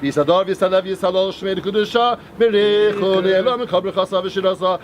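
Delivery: rapid murmured prayer, partly half-sung; quick prayer chant in Aramaic; fast Kaddish recital. Acted. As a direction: rattle through the Kaddish like daily prayer.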